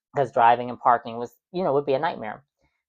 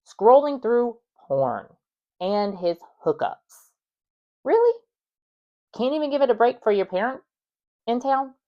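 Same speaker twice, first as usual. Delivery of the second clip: disgusted disbelief; 9 semitones higher than usual. Real, not acted. Disgusted commentary on partner.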